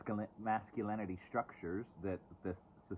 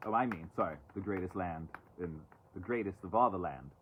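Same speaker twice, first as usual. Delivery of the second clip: sarcastic correction. Pretend. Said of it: "Sorry, I'm being sarcastic".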